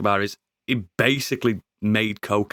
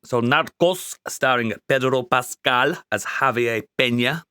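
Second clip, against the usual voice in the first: put-on Colombian accent. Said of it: "That's my great Colombian accent".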